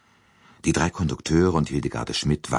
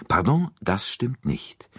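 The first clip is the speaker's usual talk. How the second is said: langsam und betont widersprechend; mit Nachdruck; 4 semitones higher, slower than usual. A narrator's reading. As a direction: jedes Wort von „das stimmt nicht“ fest gesetzt. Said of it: "widersprach Poirot mit Nachdruck". (Poirot widerspricht Bouc langsam und mit Nachdruck)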